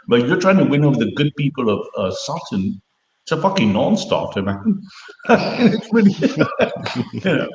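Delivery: talking while munching crisps; words round a mouthful of crisps; crunching chips. Real, not acted. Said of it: "sorry, I'm munching on some crisps".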